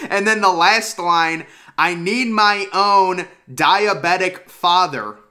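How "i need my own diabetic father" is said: slow reading. Shown as a demonstration. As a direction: read out slowly. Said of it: "must have tried to do some sort of translation".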